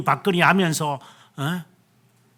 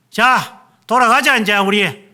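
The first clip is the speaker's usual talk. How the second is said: acted call to leave; 4 semitones higher, 5 dB louder than usual. Disciples giving up and leaving.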